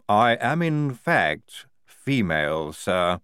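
only a trace of a lisp; nearly lisp-free admission; lisp mostly dropped. A narrator's reading. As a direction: let most of the lisp go. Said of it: "dropping most of the lisp".

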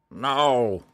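high sudden cry of no; a monk blurting out alarm. A narrator's reading. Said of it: "Brother Jenkin cried suddenly".

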